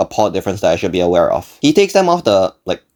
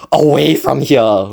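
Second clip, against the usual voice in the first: drawn-out, higher-pitched mild yell; mock inner scream; 5 semitones higher, slower than usual. Son silently answering dad's question, mock desperate scream. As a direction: stretch it into a half-held-back wail. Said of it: "In my head, I'm just screaming".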